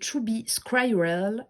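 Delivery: slow English in a French accent. Real, not acted. Correcting the deck's name for viewers, slow French-accented English. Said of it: "Désolée pour mon accent pourri".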